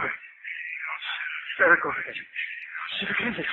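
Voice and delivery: whispered, slow and fearful; frightened whisper. Acted. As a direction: breathe it out as the terror starts. Hears the voice in his head.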